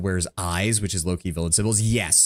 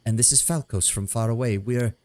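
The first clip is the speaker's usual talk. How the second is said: dryad voice. Acted. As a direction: introduce yourself gently as the dryad. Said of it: "come up with voices for them".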